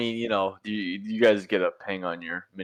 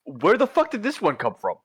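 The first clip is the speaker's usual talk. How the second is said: surprised; 3 semitones higher, 5 dB louder, faster than usual. Real, not acted. Monster suddenly on him.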